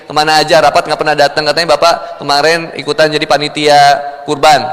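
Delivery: a low, steady run of household complaints; nagging wife. Retold or imitated. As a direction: reel off the wife's complaints to her husband. Wife nagging husband at the door. (istri yang mengomel)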